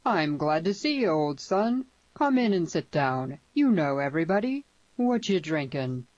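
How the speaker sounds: loud, jovial western host; hearty welcome. Acted. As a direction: welcome an old friend in, loudly. Host hails and welcomes a visitor.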